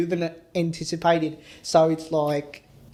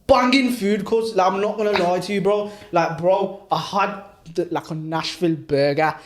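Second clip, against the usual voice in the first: put-on Birmingham accent.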